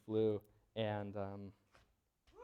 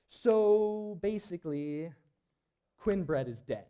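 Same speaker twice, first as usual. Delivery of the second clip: squarely; 6 semitones higher, 7 dB louder, slower than usual. Retold or imitated. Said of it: "looks at me pretty squarely and says".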